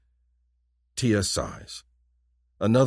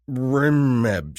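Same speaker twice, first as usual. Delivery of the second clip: earnest alien try; 6 semitones higher, 6 dB louder than usual. Acted. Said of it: "she tries, her expression earnest".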